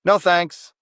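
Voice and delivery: ordinary talk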